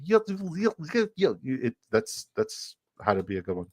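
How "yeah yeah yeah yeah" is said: high-pitched mock DJ scratching; DJ mixing noise. Shown as a demonstration. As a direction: imitate a DJ mixing records. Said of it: "sound like a D J mixing".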